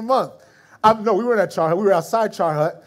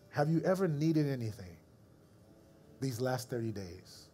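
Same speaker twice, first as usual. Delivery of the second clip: voice of God. Retold or imitated. Voice of God in spirit.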